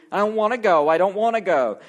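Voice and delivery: put-on a lightly whiny child; mock whining. Child refusing to get in the car, mock whining. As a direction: imitate a sulky kid refusing, half-hearted. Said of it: "you whined and you complained".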